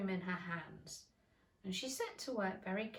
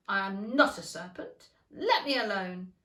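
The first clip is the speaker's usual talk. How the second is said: protesting; 8 dB louder than usual. A narrator's reading. Alice protesting at pigeon.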